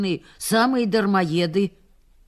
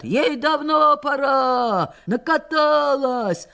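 mocking jeer; 6 semitones higher, 4 dB louder, slower than usual. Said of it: "А там кричат".

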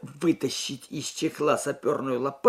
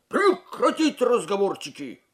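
loud, higher sharp command; barked order; 9 semitones higher, 7 dB louder than usual. A narrator's reading. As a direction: bark it to silence the ranks. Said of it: "рявкнул сержант".

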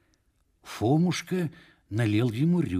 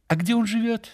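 sudden question; 13 semitones higher, faster than usual. A narrator's reading. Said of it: "неожиданно спросил блаженный".

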